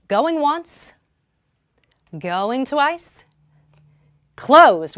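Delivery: high calls, then a shouted closed; auctioneer call. Real, not acted. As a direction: build to a booming closed. Auction countdown to close bidding.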